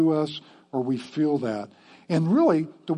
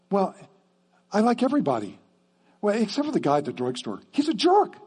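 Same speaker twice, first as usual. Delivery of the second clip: smug churchgoer; 5 semitones higher, faster than usual. Retold or imitated. Mock churchgoer's self-talk.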